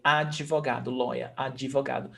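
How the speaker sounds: advogado said a-dji-vo-GA-do; added E sound. Shown as a demonstration. Teacher shows how Brazilians say it, added E sound. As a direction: slip a DJI between A and VO in advogado. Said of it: "E sound, we say advogado".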